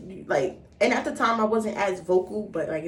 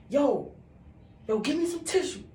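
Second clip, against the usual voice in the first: urgent call; 9 semitones higher than usual. Retold or imitated. Calling brother for tissue.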